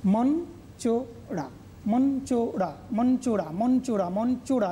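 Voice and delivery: "মঞ্চোরা" said over and over, the first time slowly; repeated syllable drill. Shown as a demonstration. Teacher drilling students on "মঞ্চোরা", slow first, then repeating it. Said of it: "এখানে একটা বিরতি থাকছে".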